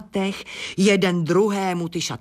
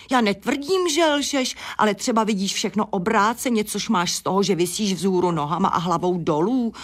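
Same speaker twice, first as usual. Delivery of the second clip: hen voice pitched way up, teasing; much higher teasing hen; 3 semitones higher than usual. Acted. Hen teases the upside-down bat, pitched high. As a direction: chirp it high with a laugh at the end.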